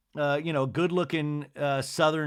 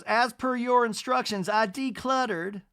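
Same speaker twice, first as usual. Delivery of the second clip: lightly voiced Southern mother; 8 semitones higher than usual. Voicing Miss Patricia.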